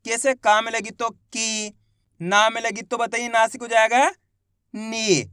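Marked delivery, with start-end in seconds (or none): 0.3-1.7 slow, drawn-out demo with की stretched long; stretched vowel. Shown as a demonstration. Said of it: "तो खींच के पढ़ेंगे". 4.7-5.2 नी held long; stretched vowel. Shown as a demonstration. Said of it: "खींच के पढ़ेंगे".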